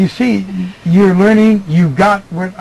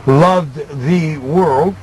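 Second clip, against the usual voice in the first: slow demo; 3 semitones lower, slower than usual. Shown as a demonstration. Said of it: "Now you go".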